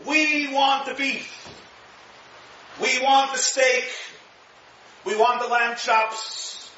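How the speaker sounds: put-on drawn-out childish whine, slow; mock the people whining for meat; slow, high whiny demand; whining crowd. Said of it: "The Jews were crying".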